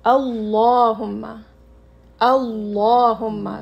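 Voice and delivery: "अल्लाहुम्मा" slow with a full, heavy lam. Shown as a demonstration. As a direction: fill the mouth on the lam of "अल्लाहुम्मा". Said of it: "मुंह आपको थोड़ा भारी सा लगना चाहिए". ("अल्लाहुम्मा" भारी लाम, मुंह भरा हुआ)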